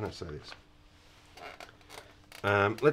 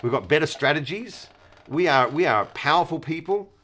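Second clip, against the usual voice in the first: mock boast; 3 semitones higher than usual. Boastful warriors quoted.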